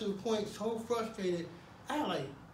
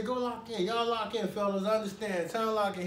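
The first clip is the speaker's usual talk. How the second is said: polite order. Retold or imitated. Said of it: "He was very nice, cordial about it".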